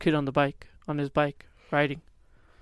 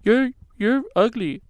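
put-on higher, louder and slow childish insult; retold yell; 7 semitones higher, 7 dB louder, slower than usual. Kid mocking a stranger, slow loud taunt. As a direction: drag out the taunt like a bratty kid. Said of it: "I was like that".

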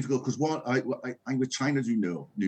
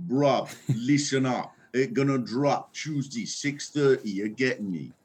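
laughing mock street-slang radio continuity announcer; lightly voiced mock youth announcer; 4 semitones higher than usual. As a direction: hype the drop like a young presenter. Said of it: "if they started doing that, the continuity announcers".

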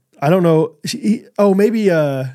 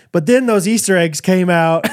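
laughing; 3 semitones higher, slower than usual. Retold or imitated. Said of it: "because she's like".

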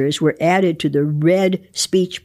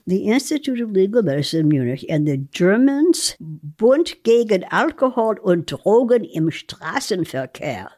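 recited like music; 2 semitones higher than usual. Acted. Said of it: "as if you were reciting a piece of music almost".

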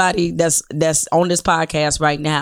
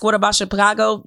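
"What about Chicago?" pitched higher, in a sarcastic mimicking tone; mock question; 5 semitones higher than usual. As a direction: parrot the people who ask it, with scorn. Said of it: "the people who often ask".

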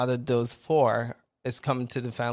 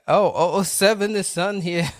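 excited; 6 semitones higher, 8 dB louder than usual. Real, not acted. Spots a friend joining the stream.

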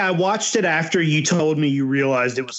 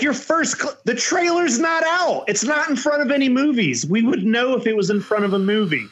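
higher, fast, worked-up reasoning; exasperated retelling; 6 semitones higher, faster than usual. Retold or imitated. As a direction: rattle off the obvious facts in disbelief. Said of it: "So I'm like".

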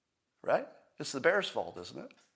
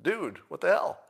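a higher, louder, indignant bear voice; annoyed bear; 6 semitones higher, 4 dB louder than usual. Acted. Bear poked with a stick by a hiker, indignant. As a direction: play the bear, baffled and offended at the poke. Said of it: "And the bear goes".

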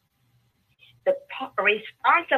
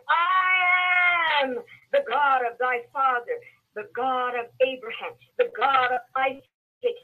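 voice of God. Acted. Voicing God's words.

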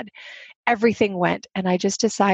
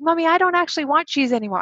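mimicking her little daughter; 7 semitones higher, faster than usual. Daughter voiced in retold scene.

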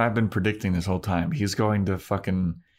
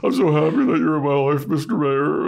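gushing; 8 semitones higher, 4 dB louder than usual. Retold or imitated. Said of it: "Faith quote".

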